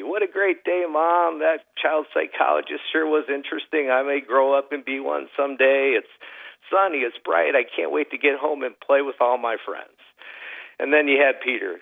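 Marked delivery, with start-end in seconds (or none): 0.0-9.9 lightly voiced happy boy, pitched higher; a hint of a bubbly little kid chattering away; cheerful optimist kid. Optimistic son chatting to mom in the minivan, lightly voiced cheerful kid.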